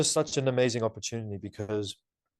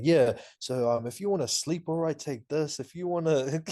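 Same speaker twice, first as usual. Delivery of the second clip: higher-pitched, over-eager advice; hyped; 5 semitones higher than usual. Retold or imitated. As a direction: reenact your own overexcited email. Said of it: "I was just so hyped".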